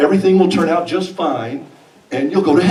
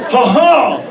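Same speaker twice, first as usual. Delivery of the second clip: nervous laugh; 6 semitones higher, 4 dB louder than usual. Retold or imitated.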